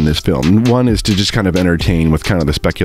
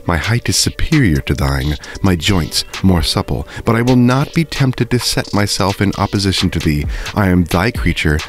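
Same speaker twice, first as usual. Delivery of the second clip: steady, measured read-aloud of a Gothic novel; story reading. A narrator's reading. Reading Mary Shelley to viewers, in measured storytelling narration. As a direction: read the passage like an audiobook narrator. Reads Frankenstein passage aloud.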